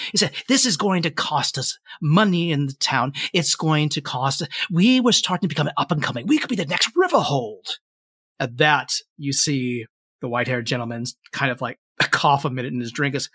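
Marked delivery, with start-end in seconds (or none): 0.5-7.8 lightly acted indignant official, building in pitch; Fen Dwellin, complaining mayor. Mayor fretting over the town's lost money, mildly indignant. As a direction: press the complaint, rising toward the end. Mayor argues about the town.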